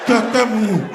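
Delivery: very high scared shriek; hammed-up terrified scream; mock scream. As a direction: shriek the monster's name. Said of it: "Appelez Kakamou".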